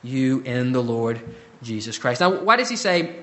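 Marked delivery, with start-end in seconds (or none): 0.0-2.2 slow, gentle urging; very tenderly. Retold or imitated. Paul modeling gracious speech to believers, tender and slow. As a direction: lay it down softly and slowly. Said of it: "very tenderly saying".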